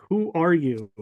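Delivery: a hint of a booming mystery voice. Mysterious voice questions the resting narrator, mildly mock-booming. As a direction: lightly imitate a commanding voice from nowhere. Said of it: "And it repeats".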